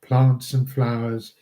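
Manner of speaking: measured reading of verse, phrase by phrase; understated recital of Shakespeare verse; poem recitation. Acted. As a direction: read the poem aloud, pausing at each line end. Reads a second poem.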